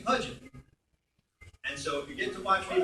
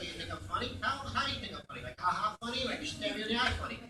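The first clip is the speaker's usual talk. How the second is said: needling mobster impression, pitched up; quick, higher New York tough-guy voice; Joe Pesci; 4 semitones higher, 5 dB quieter, faster than usual. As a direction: challenge them like a touchy wiseguy. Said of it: "I want to do Pesci".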